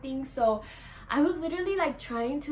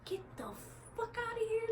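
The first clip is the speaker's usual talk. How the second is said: mock dismissal; 11 semitones higher, 9 dB quieter than usual. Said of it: "And I'm like".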